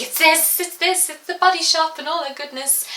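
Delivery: bright eager high reply; excited. Retold or imitated. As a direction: proudly show it off. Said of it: "I was like".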